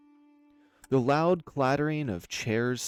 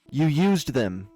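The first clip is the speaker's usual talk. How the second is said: slow, loud, raised accusation; overcome by rage; 8 dB louder, slower than usual. Acted. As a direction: force each word out in fury. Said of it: "struggle with her words as her rage overtook her".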